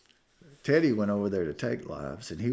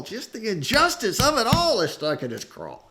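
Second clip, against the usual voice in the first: rising indignation; 13 semitones higher, 8 dB louder than usual. Retold or imitated. Preacher building indignation.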